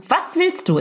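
mock yell. Driver wanting to scream at the other driver, mock yell. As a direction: throw it out like a held-back scream. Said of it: "aber ich will schreien".

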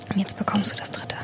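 hushed whisper. Real, not acted. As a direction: whisper it softly. Hushed handover of the sample.

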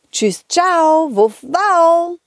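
a puppy barking its goodbye; lightly voiced playful dog. Dog Balli says goodbye.

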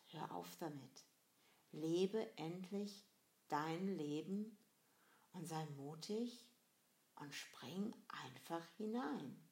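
measured, slow inner voice. Acted. Inner voice telling you to live your life, slow and measured. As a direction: urge gently, word by word, with pauses. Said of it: "kommt wieder diese innere Stimme".

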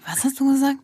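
whispered repeat of the question; geflüstert. Retold or imitated. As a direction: breathe it out without voice, still puzzled. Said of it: "dann sag ich". (verwirrt geflüstertes Nachfragen)

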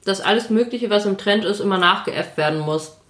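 talking with mouth full. Real, not acted. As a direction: speak through a mouthful of food. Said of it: "ich rede gerade mit vollem Mund".

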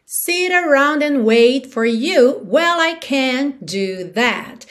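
slow, drawn-out lyric; song rhythm. Shown as a demonstration. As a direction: recite it slowly in the song's rhythm. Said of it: "te dando no ritmo da música".

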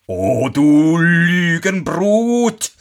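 langsam, hoch und gedehnt, voller Empörung; zorniger Schneider. Acted. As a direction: der Vater schimpft den dritten Sohn aus. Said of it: "rief der Schneider". (langsamer, empörter Ausruf)

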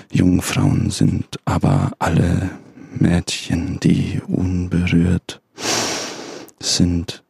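slow, grave scripture reading; solemn Bible reading. Acted. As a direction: read it like a pastor from the pulpit. (feierliche Bibellesung)

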